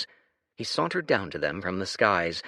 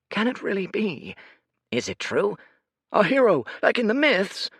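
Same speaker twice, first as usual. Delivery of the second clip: murmuring citizen; 11 semitones higher, 5 dB louder than usual. Acted.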